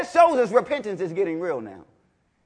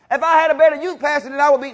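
lightly voiced whiny excuse, higher and louder; mock excuse; 7 semitones higher, 6 dB louder, faster than usual. Preacher imitating an excuse-maker, mock whine. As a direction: mimic a believer making excuses.

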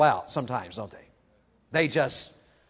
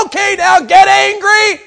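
much higher, louder mock shout of permission; 12 dB louder, slower than usual. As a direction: bellow it like a false preacher, slowly. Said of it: "He is not saying".

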